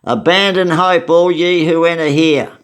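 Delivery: lightly acted solemn announcement; mock proclamation. A prisoner joking at the jail gates, mock proclamation. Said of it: "Someone said".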